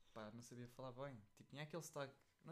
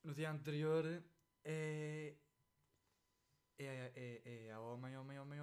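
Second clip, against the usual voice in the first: loud mocking echo of the phrase; mock loud repeat; 6 dB louder, slower than usual. Mocking his friend, repeats the phrase loudly. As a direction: throw the words back loudly.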